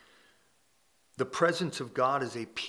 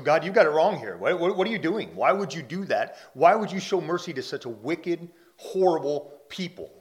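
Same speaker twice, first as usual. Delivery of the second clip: indignant Jonah protesting; 5 semitones higher, 8 dB louder than usual. Retold or imitated. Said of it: "And he's angry".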